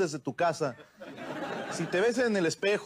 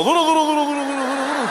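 higher, louder, clipped repetition; mock stiffening; 9 semitones higher, 7 dB louder, faster than usual. Describing the chihuahua going rigid, a higher mock chant. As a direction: chant it as the dog goes rigid.

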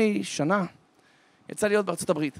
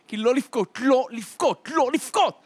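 raised, insistent self-command, mounting; desperate self-urging; 6 semitones higher, 5 dB louder, slower than usual. Acted. Frightened boy tells himself not to cry, desperate self-urging. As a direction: fight back tears, each repeat higher. Crying child steels himself.

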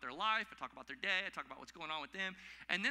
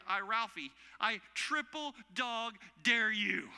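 loud, slow, drawn-out dare; hammed-up kid's dare, last word held long; Ralphie; 4 semitones higher, 6 dB louder, slower than usual. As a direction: stretch each word into a big, higher challenge. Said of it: "pull the Christmas story".

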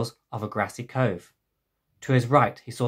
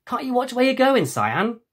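annoyed; 11 semitones higher, 3 dB louder than usual. Acted. Friend nearly run over.

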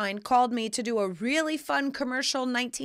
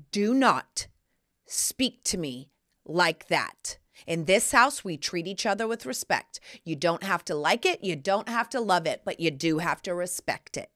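firm parent tone; 3 semitones lower than usual. Retold or imitated. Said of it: "but I was firm in that tone".

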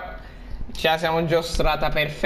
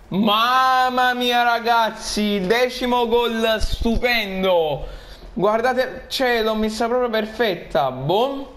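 excited goal celebration; 5 semitones higher, slower than usual. Real, not acted.

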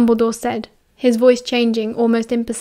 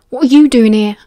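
louder angry snarl; 7 dB louder than usual. Acted. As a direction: bite his head off. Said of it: "Remus snarled".

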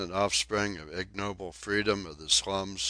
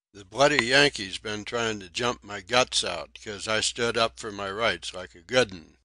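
lightly voiced aggrieved cockney sailor, louder; a hint of a whining ragged sailor begging; Donkin's cockney plea; 3 semitones higher, 7 dB louder than usual. Ragged newcomer begging the crew for clothes, aggrieved.

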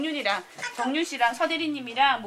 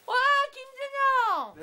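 excited call; 12 semitones higher, 4 dB louder, slower than usual. Real, not acted. 사다리 결과 발표하며 외침.

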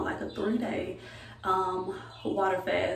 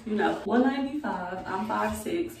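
a bit winded after dancing; out of breath; 3 semitones higher than usual. Real, not acted. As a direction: talk while catching your breath. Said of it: "I'm out of breath".

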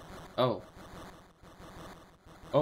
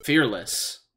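put-on barely-there Lombre accent. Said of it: "I'm barely even doing the accent".

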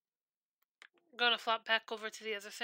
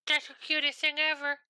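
delighted squeal; 4 semitones higher than usual. Retold or imitated. Friend shows a pink heart nightlight, gushing delight. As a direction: gasp and gush at the cutest thing. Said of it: "My brain goes".

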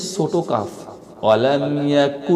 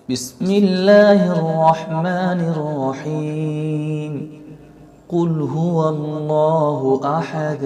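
slow melodic tajweed chant; Quran recitation; much slower than usual. Acted. Teacher reciting Surah Ikhlas in slow chant. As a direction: chant the surah slowly and evenly.

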